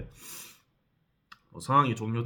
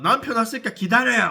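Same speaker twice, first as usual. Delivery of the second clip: retold sharp call; 9 semitones higher, 7 dB louder than usual. Wife snaps at narrator, calls husband.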